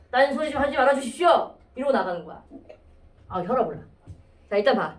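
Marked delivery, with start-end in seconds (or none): 0.1-1.5 imitating a rudely polite student, stiff; mock defiant, stiffly formal student; scowling formal demand. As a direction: deliver the polite words with a frown. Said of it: "인상 쓰면서".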